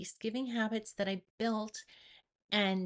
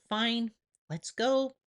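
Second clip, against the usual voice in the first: slow, louder, resigned; reluctant giving in; 2 semitones higher, 5 dB louder, slower than usual. Retold or imitated. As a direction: drag it out like you've given up.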